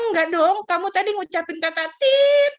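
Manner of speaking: God reminding the child of the bad word; voicing God. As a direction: correct a child firmly. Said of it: "Tuhan bilang".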